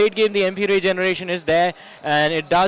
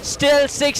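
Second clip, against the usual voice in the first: excited countdown; 6 semitones higher, slower than usual. Real, not acted. Countdown to game end.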